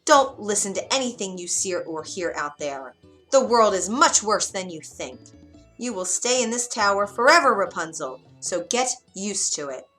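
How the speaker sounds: yelling. Acted. Witch yelling at curious Rapunzel, exasperated. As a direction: lose patience and yell. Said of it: "the witch would yell".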